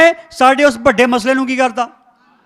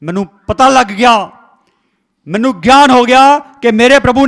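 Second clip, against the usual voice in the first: bold declaration to Satan; 4 semitones lower, 5 dB louder than usual. Shown as a demonstration. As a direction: defy the devil, rising to a triumphant shout. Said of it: "ਸ਼ੈਤਾਨ ਨੂੰ ਕਹੋ".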